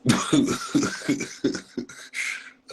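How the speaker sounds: loud, high wheezing laugh; real laughing fit. Real, not acted. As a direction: burst out laughing and run out of breath. Cracks up again at the story.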